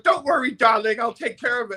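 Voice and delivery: high, coaxing camp voice; campy promoter. Retold or imitated. Promo man calming the panicked singer, high and coaxing. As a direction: soothe him like a flamboyant handler.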